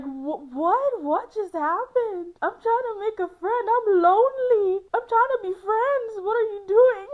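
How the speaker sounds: high, loud, laugh-crying whine; pleading through laughter; laughing mock wail. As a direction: wail it out half laughing, half crying like a lonely friend. Exaggerated panicked complaint, laughing.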